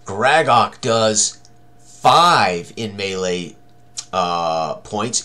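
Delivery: ordinary delivery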